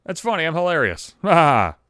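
put-on laugh at his own joke; forced, self-congratulating ha-ha; mock joking laughter. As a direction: laugh falsely at your own gag. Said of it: "A joke".

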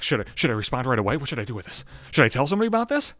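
fast, fluttery worried questions; mock giddy schoolgirl fretting; giddy high school girl. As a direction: gush like a teenage girl with a crush. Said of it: "like a high school girl".

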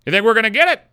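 lightly voiced stranger asking; woman's question. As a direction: ask it brightly out of nowhere. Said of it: "She's like".

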